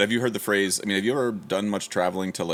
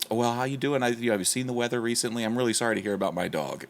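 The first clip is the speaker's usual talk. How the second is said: lightly higher, overly polite imitation; mock Minnesota nice; 5 semitones higher than usual. Minnesotan greeting someone whose dog he ran over, mock-polite and higher. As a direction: parody sweet small talk, pitched up a little. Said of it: "they'll be just".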